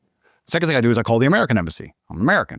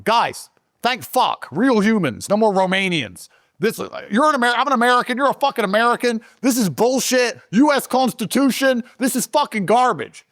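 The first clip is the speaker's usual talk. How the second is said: retold relieved rant; 11 semitones higher than usual. Retold outburst to embassy.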